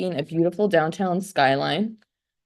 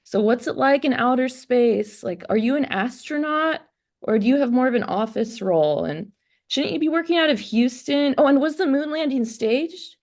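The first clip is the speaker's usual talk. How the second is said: high, breathless starstruck questions; gushing; 8 semitones higher than usual. Retold or imitated. Woman on a date gushing questions at NSA man, high and eager. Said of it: "I just start gushing".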